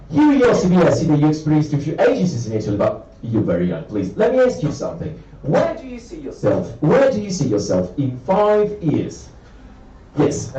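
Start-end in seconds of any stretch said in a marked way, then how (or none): 0.1-9.3 lightly played smooth recruiter; posh English interviewer. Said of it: "posh English guy".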